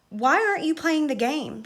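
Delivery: sharp high bark at him; barked question. Acted. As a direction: snap it at the odd kid. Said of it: "she barked".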